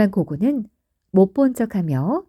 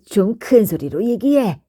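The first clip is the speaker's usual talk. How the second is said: wants to shout. Acted. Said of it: "라고 소리치고 싶었어".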